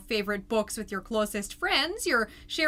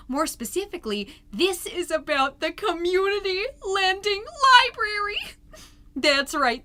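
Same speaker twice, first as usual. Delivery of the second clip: bright, loud chirpy host voice; perky PTA mom; 4 dB louder than usual. Acted. PTA mom gushing to the neighborhood ladies, loud and perky. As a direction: sell it like a bubbly neighborhood mom.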